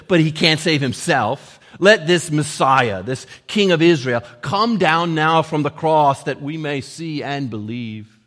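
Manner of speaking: loud, emphatic scorn; mocking. Chief priests mocking Jesus, loud public scorn. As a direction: preach the taunt out loudly. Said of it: "mocked him amongst themselves".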